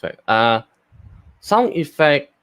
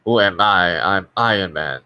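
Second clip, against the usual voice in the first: Tony Stark voice; 2 semitones lower than usual. Shown as a demonstration. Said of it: "Tony Stark sounds like".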